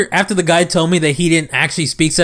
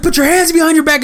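higher-pitched mock police command; arresting officer's order; 10 semitones higher than usual. Retelling the officer arresting a fleeing woman, mock command. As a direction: act out a cop ordering a suspect.

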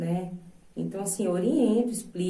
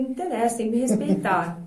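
firm retort, slightly louder; mother putting her foot down; 3 semitones higher, 4 dB louder than usual. Retold or imitated. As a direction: lay down the law to a child. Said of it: "Eu falei".

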